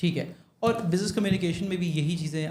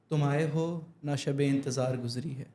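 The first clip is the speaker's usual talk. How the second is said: measured, clean verse recitation; clear diction. Shown as a demonstration. Student repeats the teacher's verse on air, careful clear diction. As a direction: repeat the verse slowly and distinctly. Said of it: "بالکل صاف ہو گئی تھی".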